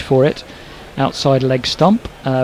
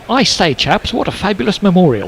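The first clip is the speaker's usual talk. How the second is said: mock-gushing, higher swooping pitch; hammed-up English tourist; 4 semitones higher than usual. Commentator imagining himself admiring a Belfast memorial, mock-gushing. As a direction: imitate a jolly English visitor admiring the sights.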